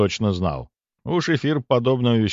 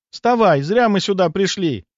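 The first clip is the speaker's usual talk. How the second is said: urgent; 10 semitones higher, 4 dB louder than usual. A narrator's reading. Nastya urging Lena to leave.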